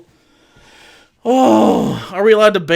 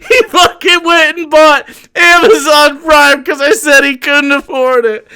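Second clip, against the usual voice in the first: laughing shout; 5 semitones higher than usual. Real, not acted. Streamer laughing at the troll's purchase.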